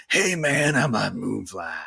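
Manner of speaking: low, gravelly drawn-out creature; gravelly Moonfly voice. Shown as a demonstration. Player demonstrates the voice picked for the game, gravelly. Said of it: "Ended with the gravelly one".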